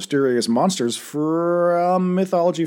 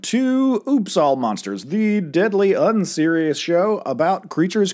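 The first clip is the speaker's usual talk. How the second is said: podcast intro; 3 semitones higher than usual. Acted. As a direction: announce the show like a host.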